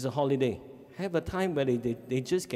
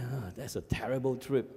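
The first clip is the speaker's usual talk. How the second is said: put-on sulky teen son; 4 dB quieter than usual. Son's sulky reply quoted.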